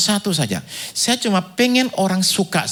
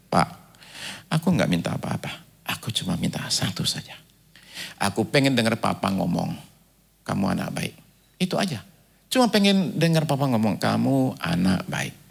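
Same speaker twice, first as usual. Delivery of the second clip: soft, low, understated pleading; retold tearful plea; 7 semitones lower, 6 dB quieter than usual. Grown director pleading to hear father's praise, subdued tearful retelling. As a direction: plead quietly, as if through tears, without sobbing. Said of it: "Sambil nangis dia bilang".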